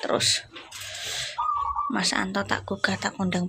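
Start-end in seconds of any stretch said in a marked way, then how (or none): 1.9-3.5 hushed whisper so he stays asleep. Real, not acted. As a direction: say it under your breath. About to wake sleeping husband.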